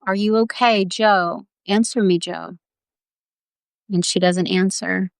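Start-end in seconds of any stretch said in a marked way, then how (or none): 0.1-2.6 mildly acted calling down a well. Rescuer calling to Jo down in the well, calling down. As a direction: call to a lost child, gently urgent. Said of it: "we're calling down to her".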